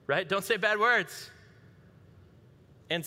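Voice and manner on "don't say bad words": higher, slow, drawn-out scolding; mock church teacher. Church teacher tells children about bad words, high slow mock admonishing. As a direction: imitate a teacher reciting a simplistic rule.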